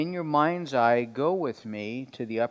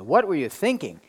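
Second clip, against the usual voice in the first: imitating mom's exasperated scolding, stress on thinking; firmer, louder retold telling-off; sharper mother's rebuke; 3 semitones higher, 3 dB louder than usual. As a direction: demand an answer like a cross mother. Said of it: "She didn't say it that night".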